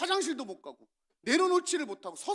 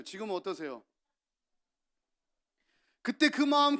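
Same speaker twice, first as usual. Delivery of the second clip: ordinary delivery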